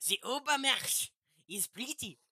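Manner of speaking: mock swoon.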